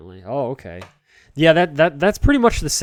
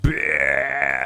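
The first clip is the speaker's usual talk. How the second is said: mock burp; 5 semitones higher, 3 dB louder than usual. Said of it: "let out, like, a big burp".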